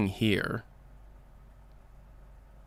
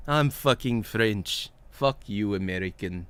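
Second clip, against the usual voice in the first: French accent; 2 semitones lower than usual. Shown as a demonstration. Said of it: "What do the French sound like?".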